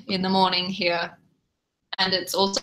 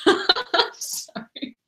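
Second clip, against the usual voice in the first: laughing apology; 12 semitones higher, much slower than usual. Real, not acted. Giggling at own remark.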